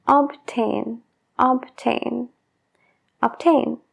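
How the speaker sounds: "Obtain" with a clear b before the t; b sounded in obtain. Shown as a demonstration. Teacher repeats "obtain" so learners hear the b. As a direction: sound the b in "obtain" every time. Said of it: "Sí que pronunciamos esa B".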